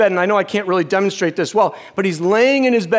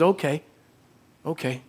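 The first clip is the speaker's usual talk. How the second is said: hushed, voiced near-whisper, fading softer; dad's whisper; 6 dB quieter than usual. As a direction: imitate a dying father's weak whisper. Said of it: "this is what he whispers".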